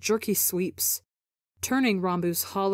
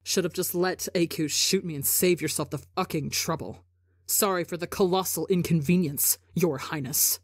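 vicious finality. Acted. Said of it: "with vicious finality".

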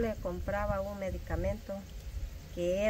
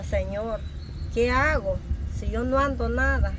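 louder, pleading cry to the Lord; retold tearful plea; 2 semitones higher, 5 dB louder than usual. Mother recalls begging God at the clinic, tearful louder plea. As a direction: relive begging God for help through tears. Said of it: "Y yo lloraba y decía".

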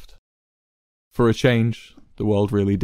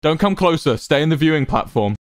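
urgent warning; 7 semitones higher, 4 dB louder than usual. A narrator's reading. Ranbu still shouting Wilbur back.

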